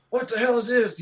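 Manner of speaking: high-pitched indignant question; indignant old teacher. Retold or imitated. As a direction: imitate a teacher catching mischief. Old teacher discovering the carved desk.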